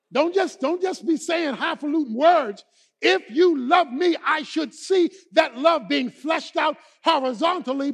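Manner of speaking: emphatic, punchy pulpit delivery; impassioned preaching. Acted. Preacher voicing Jesus challenging Peter to serve, impassioned. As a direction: preach the challenge, hammering the key words.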